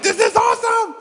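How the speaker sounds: high thrilled yelp; excited. Retold or imitated. Rookie on the sideline, thrilled to run. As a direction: burst with rookie joy. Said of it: "I'm like".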